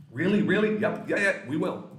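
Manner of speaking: high, loud and eager; excited kid. Retold or imitated. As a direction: squeal like a thrilled child. Excited kids answering parent.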